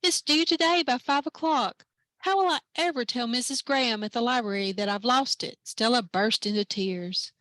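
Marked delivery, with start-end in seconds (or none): 0.0-5.6 put-on upset girl. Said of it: "Stella cried".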